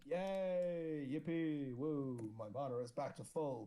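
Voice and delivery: cheery chirpy character cheer; gleeful squeaky hero voice; Kato's voice. Acted. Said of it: "I just like doing Kato's voice".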